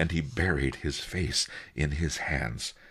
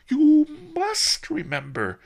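much higher, louder, pressed and breathy; desperate howl; 8 dB louder than usual. Acted. Merchant demands an answer from the boy, frantic howl. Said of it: "the merchant howled".

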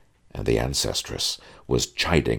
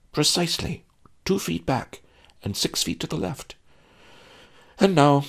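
higher resigned father voice; weary father; 4 semitones higher than usual. Acted. Henpecked father instructing the groom, higher and weary. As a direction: lecture the boy like a henpecked dad.

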